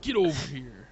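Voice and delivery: lightly voiced Mortal Kombat ninja; a hint of Scorpion's battle cry. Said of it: "Try to do your best Scorpion impression".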